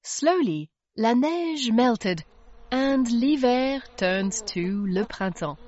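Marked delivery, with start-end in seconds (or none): none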